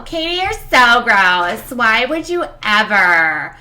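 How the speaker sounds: slow, loud, exaggerated disgust; hammed-up self-scold; mock scolding. Streamer mock-scolding herself for picking her teeth, slow and loud.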